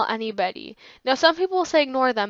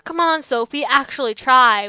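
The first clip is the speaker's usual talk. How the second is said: mocking taunt; 6 dB louder than usual. Classmates taunting her in gym.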